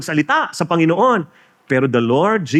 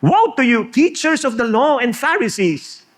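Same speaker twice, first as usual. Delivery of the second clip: angry woe; 8 semitones higher than usual. Retold or imitated. Jesus condemning the Pharisees, raised angry woe. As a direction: cry woe on the hypocrites. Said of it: "Galit na galit".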